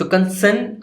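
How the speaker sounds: कंसेन climbing up to सेन; rising intonation. Shown as a demonstration. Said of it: "आवाज़ को ऊपर लेके जा रहे हो".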